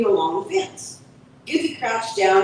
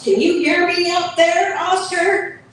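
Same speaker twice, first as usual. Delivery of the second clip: high, louder calling yowl; cat yowling up at the seagull; 10 semitones higher, 3 dB louder than usual. Acted. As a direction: call up high and loud to the bird.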